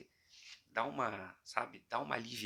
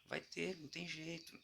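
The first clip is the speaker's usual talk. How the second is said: preacher voice; 5 semitones higher than usual. Pretend. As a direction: lean into the preacher bit, pitched up. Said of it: "Falei igual o bispo do Universal agora".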